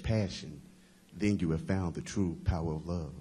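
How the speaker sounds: rhythmic poetry recital with phrases falling at the ends; spoken-word poem. Acted. Poet shares The Power of Love with a campus crowd, spoken-word recital.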